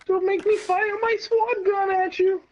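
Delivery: high, slow hammed-up threat; mock hero threat.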